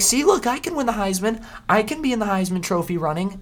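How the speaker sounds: very high, loud, bragging squeal; boastful quarterback. Pretend. Quarterback bragging after a big play, high and squeaky. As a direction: gloat like a kid who won. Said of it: "Be like".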